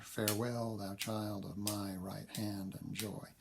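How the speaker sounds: put-on "Farewell, thou child of my right hand and joy" slowly, in five beats; measured iambic reading. Shown as a demonstration. Lecturer illustrates iambic pentameter, "Farewell, thou child of my right hand and joy" read in slow iambs. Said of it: "It's in what we call iambic pentameter".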